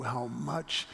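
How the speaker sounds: very slow, soft reassurance; tender. Retold or imitated. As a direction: let each word land gently. Tender close to Betty.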